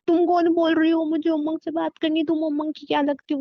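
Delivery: lightly mocking quote of a demanding caller; imitating the caller. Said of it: "company बोलेगी".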